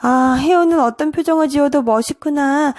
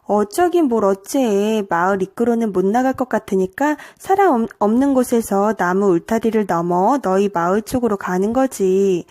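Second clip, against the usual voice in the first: gentle, lower-pitched reply; a touch of tenderness in a low voice; softly, gently; 3 semitones lower than usual. Acted. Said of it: "처음으로 해우가 내게 부드럽게 말했어".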